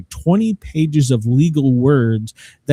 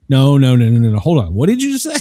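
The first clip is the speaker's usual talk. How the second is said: retold disbelief; 3 dB louder, faster than usual. Wife reacting to the price.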